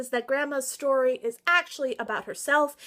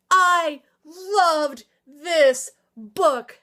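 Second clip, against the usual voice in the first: slow, drawn-out gush; swooning over a favorite book; 4 dB louder, much slower than usual. Real, not acted. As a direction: stretch every word with love. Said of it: "gushing about favorite".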